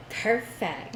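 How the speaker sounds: lightly voiced registrar saying "Perfect"; a hint of the cheerful clerk, falling "Perfect"; mock registrar. Telling friends how the registrar answered, lightly imitated. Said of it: "Literally, it's just".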